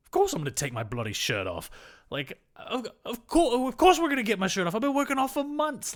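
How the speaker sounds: put-on a terrible Australian accent that climbs to a near shout; bad Australian accent. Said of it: "I'm listening to your accent".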